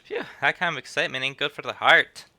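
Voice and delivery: lightly put-on country old man; old peddler. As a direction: warn the lad like a gossiping old trader. Voicing old peddler again.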